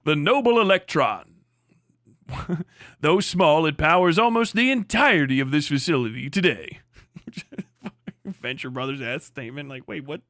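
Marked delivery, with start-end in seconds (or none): 0.0-6.8 Jonas Senior voice. Pretend. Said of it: "that would be Jonas Senior".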